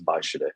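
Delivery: "Weichede" with the W said as V; German pronunciation. Shown as a demonstration. Adviser shows host his German last name, "Weichede" said with a V. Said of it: "the W is pronounced V".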